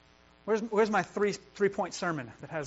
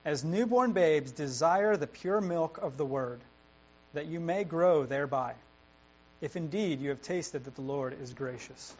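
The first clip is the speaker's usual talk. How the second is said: scripture reading. Acted. Pastor reads the passage to the church, measured. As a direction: read the verse out to the congregation.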